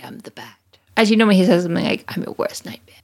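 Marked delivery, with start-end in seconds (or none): 0.0-0.6 breathy whisper, menacing; whispered Batman line. Retold or imitated. Voicing Batman's catchphrase. 2.1-3.0 menacing whisper; whispered threat. Retold or imitated. Voicing Batman's threat.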